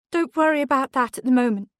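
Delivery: mother calling to reassure her son; hurried call. A narrator's reading. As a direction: hurry past the question. Mother deflecting children's question.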